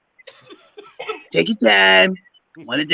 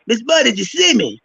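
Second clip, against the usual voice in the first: imitating Mister Brown; 6 semitones higher than usual. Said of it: "And he said".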